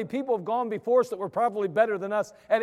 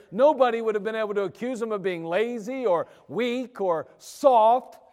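preaching; 4 dB louder than usual. Acted. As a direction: preach it with full force. Preaching at full force.

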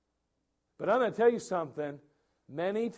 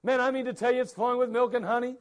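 quick, eager report; excited spies; 4 semitones higher, faster than usual. Retold or imitated. Spies telling the people about the land, excited and quick. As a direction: rush it out with glee. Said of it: "They go".

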